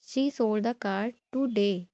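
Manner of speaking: slow, ending on a weighted "today"; stress on TODAY. Shown as a demonstration. Teacher shows focus on time, stress on "today". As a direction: save the emphasis for "today". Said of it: "if we focus on time".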